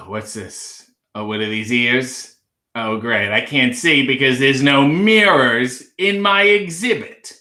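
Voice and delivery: lightly voiced, grumbling sarcastic zebra; a put-upon zoo animal, dry and sarcastic; annoyed zebra. Zebra in reindeer costume grumbles to the zoo keepers, dry and sarcastic. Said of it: "I'm an annoyed anthropomorphic zebra".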